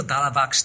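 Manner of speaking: "ダーラーバックス" as misheard American "dialog box"; "ダーラーバックス" with the middle vowels of dialog swallowed; American-English pronunciation. Retold or imitated. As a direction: imitate Americans saying "ダーラーバックス" as one linked word. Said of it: "ずーっとね".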